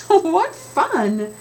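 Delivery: put-on high, loud gleeful kids' shout; delighted shout. Kids cheering as they bike after the cart, loud and gleeful. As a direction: cheer it like excited children. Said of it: "they shouted".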